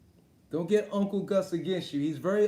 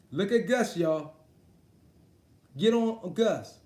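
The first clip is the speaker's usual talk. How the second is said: egging on; 4 dB louder, slower than usual. Real, not acted. Calling on chat to attack Gus.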